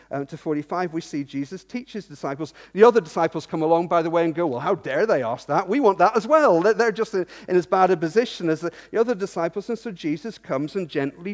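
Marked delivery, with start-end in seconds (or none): 4.5-6.6 building to a louder protest; lightly acted indignant objection; mock indignation. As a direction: protest as if cheated of your share.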